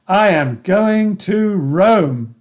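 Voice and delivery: I stressed, each word drawn out slowly; very slow final affirmation. Shown as a demonstration. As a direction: savour it slowly, falling at the end. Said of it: "my affirmation in all its variations".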